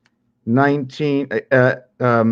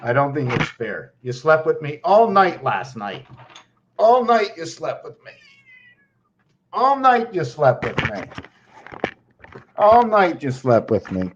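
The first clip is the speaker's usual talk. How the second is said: pet talk; 2 semitones higher than usual. Real, not acted. Pleading with the pet.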